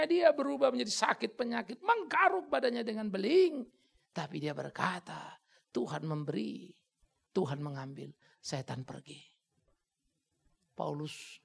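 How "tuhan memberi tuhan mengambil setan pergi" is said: calm acceptance. Acted. Job's words calmly quoted.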